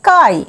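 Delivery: কাই said as "kai", the letters K Y read as one syllable; pronunciation demo. Shown as a demonstration. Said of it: "উচ্চারণ হবে".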